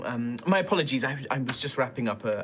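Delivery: put-on courteous host with a light European accent; slight European accent. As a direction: greet a friend in a hint of European accent. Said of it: "European accent".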